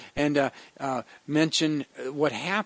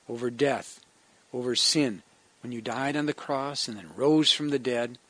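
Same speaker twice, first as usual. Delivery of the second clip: closing prayer. Acted. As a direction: pray gently for the congregation.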